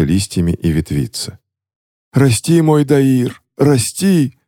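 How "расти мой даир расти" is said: high, slow egging on; urging on. Acted. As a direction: spur the sprout to grow. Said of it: "подзадоривал его гоблинский король".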